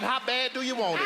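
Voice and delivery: loud, pressing question, punching how; forceful challenge. Real, not acted. Counselor challenging the woman, loud and forceful. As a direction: demand an answer, loud and hard. Pressing guest on her commitment.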